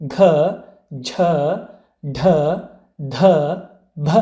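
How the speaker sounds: ಘ, ಝ, ಢ, ಧ, ಭ voiced with extra breath; letter by letter, ಘ, ಝ, ಢ, ಧ, ಭ aspirated, with pauses between; aspirated consonants. Shown as a demonstration. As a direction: let breath follow each of ಘ, ಝ, ಢ, ಧ, ಭ. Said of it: "ಹೆಚ್ಚು ಉಸಿರಿನಿಂದ".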